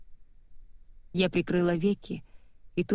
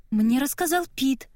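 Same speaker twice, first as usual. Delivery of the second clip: a lightly higher sister's voice stating it; declaring as Nora; 6 semitones higher than usual. A narrator's reading. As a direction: Nora owns up defiantly. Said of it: "заявила она". (Нора с вызовом заявляет сестре)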